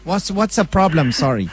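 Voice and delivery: put-on accented words round a bite of food; mouth full. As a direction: speak while chewing. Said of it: "Perhaps you can hear me eating".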